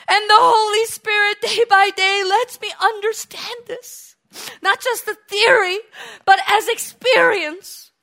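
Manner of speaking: impassioned preaching, rising and falling; fervent sermon. Real, not acted. Preacher to congregation, fervent sermon.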